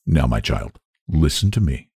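low, fatherly minister; patient low-pitched appeal; gently admonishing. A narrator's reading. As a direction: ask for attention in a low, kindly voice.

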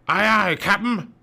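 high, loud obedient henchman voice; pirate henchman. Acted. Pirate crew answering Captain Bones, eager henchman voice. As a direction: answer up like a comic pirate crewman.

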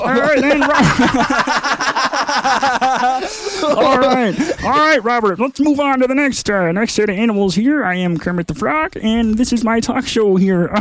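a hint of a croaky puppet frog; Kermit voice. Host speaking as Kermit to Robert, light Kermit voice. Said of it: "does sound like Kermit".

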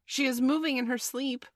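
high, loud announcement; shout. A narrator's reading. A boy warns that Wendy is stirring, shouting. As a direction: call out the news urgently. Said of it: "shouted another".

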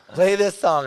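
high, loud song request; re-enacted eager shout; calling out. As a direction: call it out excitedly across a room. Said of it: "calling out songs".

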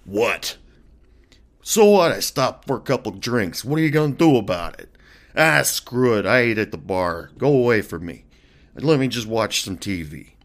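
put-on loud, defensive drunk snapping; belligerent drunk. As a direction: brush them off with a snarl. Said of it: "Are you a mean drunk?".

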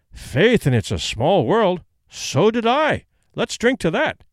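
leprechaun. Acted. Irishman toasting in bar joke.

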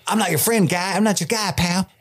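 rising high, sarcastic friend-denial; mock offended Durin. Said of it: "Durin would be like".

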